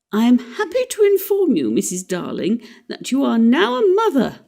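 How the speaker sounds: high, formal announcement like a proud father; pompous father. Retold or imitated. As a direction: announce it grandly, playing the father. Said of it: "in just such a tone as Mister Darling himself".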